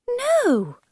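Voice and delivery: high no. Acted. Alice answers.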